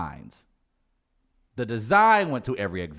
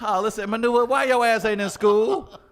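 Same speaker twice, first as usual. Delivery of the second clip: scolding; 10 semitones higher, 6 dB louder than usual. Acted. Scolding the kid.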